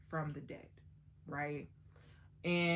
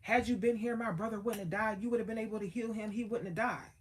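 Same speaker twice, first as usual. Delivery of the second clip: louder and higher, accusing Jesus; mock yelling; 5 semitones higher, 4 dB louder, faster than usual. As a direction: throw the blame at him, half-acted. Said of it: "yelling and screaming at Jesus".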